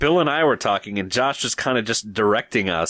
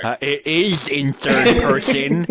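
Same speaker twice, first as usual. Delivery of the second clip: lisping nerd voice; 3 semitones higher, 3 dB louder than usual. Acted. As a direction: correct him in the nerd voice. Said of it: "if you said that in the voice".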